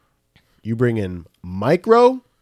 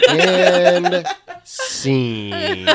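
laughing; 7 semitones higher, 5 dB louder than usual. Real, not acted. Laughing end of bit.

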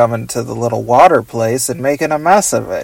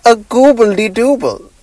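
higher silly nonsense voice; Doctor Bug voice; 7 semitones higher than usual. Pretend. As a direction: rattle off gibberish names goofily. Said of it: "doing the Doctor Bug voice".

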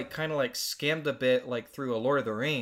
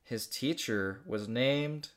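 slow storybook reading; story narration; 2 semitones higher than usual. Acted. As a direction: read it like a children's book. Reads her childhood story aloud.

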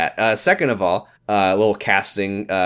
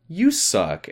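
higher, wounded echo of the insult; hammed-up sad comeback; mock hurt echo; 6 semitones higher than usual. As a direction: throw it back, pretending to be hurt. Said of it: "the girl gets really sad and goes".

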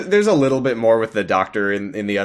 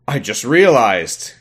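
mock realization; 3 semitones higher, 5 dB louder, slower than usual. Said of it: "the doctor is like".

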